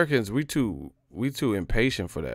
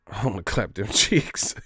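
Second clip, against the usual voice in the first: laughing pickup line. Retold or imitated. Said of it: "we just get straight to the point".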